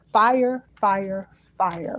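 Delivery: "fire" repeated as separate emphatic beats; stress on fire. Retold or imitated. Relaying their message to listeners, stress on fire. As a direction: land on each "fire", the first one hardest. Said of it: "they emphasis on fire".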